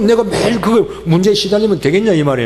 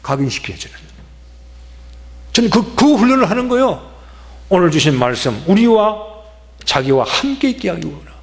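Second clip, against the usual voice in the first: ordinary talk, nothing marked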